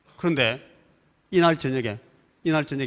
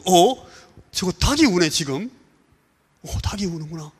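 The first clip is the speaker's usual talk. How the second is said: startled surprise; 4 semitones higher than usual. Retold or imitated. Bystanders hearing the rooster at night, startled. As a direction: jolt awake at the sound.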